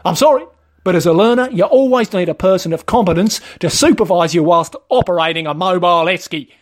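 lightly voiced petty rule-keeper; Wayne, officious trainer. Trainer explaining the rules to a fined learner, officious. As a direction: recite the rule self-importantly.

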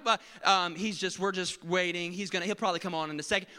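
lightly voiced nervous attendant; apologetic attendant. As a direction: placate the passenger. Attendant excuses pilot.

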